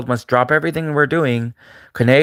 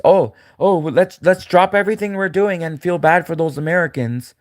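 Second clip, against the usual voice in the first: mock pity plea; 5 semitones higher than usual. Mocking Americans begging the world for sympathy, whiny. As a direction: whine it like a fake sob appeal.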